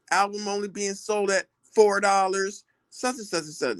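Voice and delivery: lightly imitated London accent; a hint of London accent, mocking. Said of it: "like, in a London accent".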